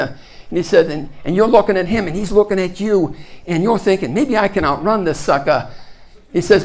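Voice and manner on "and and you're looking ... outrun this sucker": put-on Australian accent. Movie expert telling scientists how raptors hunt, Australian accent. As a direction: imitate the Australian guy from the film. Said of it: "I love to do the Australian accent".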